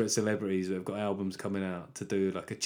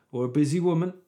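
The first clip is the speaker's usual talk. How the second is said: slightly condescending, raised pitch; louder, higher, faintly patronising aside; 4 semitones higher, 4 dB louder than usual. Real, not acted. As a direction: say it as if talking down to her. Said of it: "Why do I say that patronisingly?".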